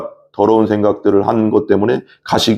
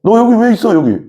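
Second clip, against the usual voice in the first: high, pushy jeer; mocking taunt; 12 semitones higher, 3 dB louder than usual. Soldiers spitting on and hitting Jesus, mocking. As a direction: taunt sharply in a raised voice. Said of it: "침 뱉으면서 막 주먹을 때리면서".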